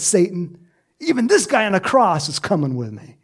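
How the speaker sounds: high, quick gloating taunt at Satan; laughing high taunt; gleeful mock taunt. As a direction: crow it like a winner.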